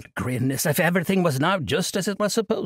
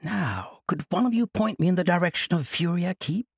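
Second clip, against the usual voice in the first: put-on high-pitched cheerful old monk brushing it off; jovial old monk; 4 semitones higher than usual. Old monk cheerfully refusing Kasai's plea, jovial. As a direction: laugh off the burden like a merry elder.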